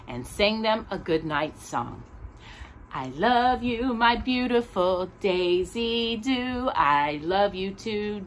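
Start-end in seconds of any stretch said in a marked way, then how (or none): 2.9-8.2 slow, gentle loving words; tender goodnight. Acted. Daddy and Daisy saying goodnight, slow and tender.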